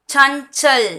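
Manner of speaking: "சஞ்சல்" as chan-chal, ny sound before ch. Shown as a demonstration. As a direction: model "சஞ்சல்" carefully in two clear parts. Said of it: "சஞ்சல்னு pronounce பண்ணணும்".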